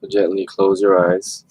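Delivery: calm meditation guidance with long pauses; guided meditation. Real, not acted. Host leads online group into stillness, guided meditation voice. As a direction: gently guide listeners inward, leaving long silences.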